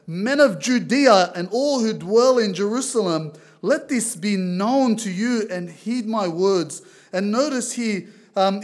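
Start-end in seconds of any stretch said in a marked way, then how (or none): 0.0-6.8 a loud, proclaiming call to the crowd; louder proclamation of a preacher to the men of Judea; raised voice. Retold or imitated. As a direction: raise it like Peter addressing Jerusalem. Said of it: "He raised his voice and said to them".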